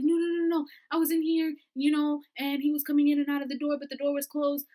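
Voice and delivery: high anxious protest; anxious insisting. Retold or imitated. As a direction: insist in a panic. Friend insisting in panic.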